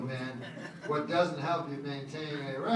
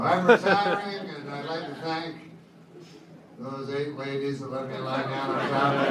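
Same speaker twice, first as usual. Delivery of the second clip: mock press conference; 3 dB louder than usual. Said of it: "have a press conference go".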